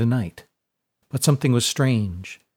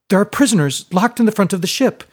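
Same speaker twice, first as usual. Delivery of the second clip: higher, louder, pressing explanation; urgent; 8 semitones higher, 4 dB louder, faster than usual. A narrator's reading. Fiona to Brody, urgently explaining about the prisoners. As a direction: make him understand fast.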